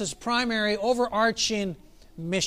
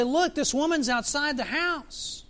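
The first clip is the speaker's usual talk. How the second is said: higher, drawn-out complaint; exasperated plea; 5 semitones higher, slower than usual. Retold or imitated. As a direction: imitate disciples pressing their case. Disciples' exasperated plea to Jesus.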